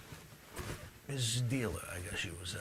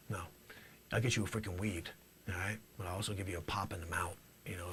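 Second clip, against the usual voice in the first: normal talking voice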